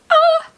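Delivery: loud high squeal of delight; fangirl squeal. Real, not acted. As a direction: let out a sudden swooning shriek. Swooning over a character.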